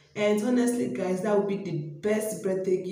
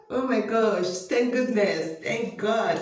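real relieved exclamation, louder at first; heartfelt relief; 3 semitones higher, 4 dB louder than usual. Real, not acted. Woman thanking God she is not pregnant, relieved. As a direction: let the relief burst out. Relief at negative test result.

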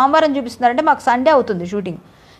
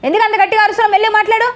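calling out loudly; 8 semitones higher, 4 dB louder than usual. Real, not acted. Calling out to Teja off-mic.

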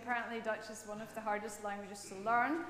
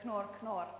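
pig grunt; 3 semitones lower than usual. Retold or imitated. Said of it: "the Dutch pig says".

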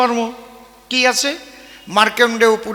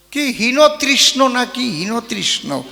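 mocking hesitation; slower than usual. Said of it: "ওর নাম আমি উচ্চারণই করব না".

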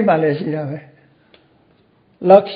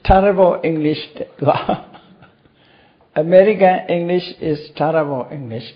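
British woman quoted; much slower than usual. Retold or imitated. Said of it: "သူကဘာပြောလို့ဆို".

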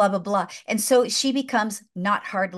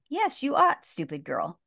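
sneering caterpillar. Retold or imitated. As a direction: dismiss her with a sneer. Caterpillar sneers then drops.

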